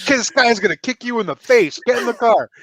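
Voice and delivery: hammed-up urgent parent voice; mock alarmed mom. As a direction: play a mom hurrying kids to safety. Voicing mom warning the kids.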